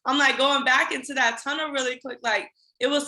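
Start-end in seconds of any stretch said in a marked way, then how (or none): 0.1-0.2 real tears rising, voice lifted high and loud; choking up while remembering the hard days; tearing up. Real, not acted. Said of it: "I'm tearing up".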